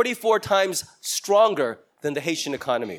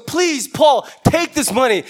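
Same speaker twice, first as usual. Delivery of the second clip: higher, louder begging plea, half-sung; pleading Macedonians; 4 semitones higher, 4 dB louder than usual. Retold or imitated. Macedonians pressing their gift on Paul, pleading loudly. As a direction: beg Paul to take the money, pushing hard. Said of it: "This is the Macedonians going".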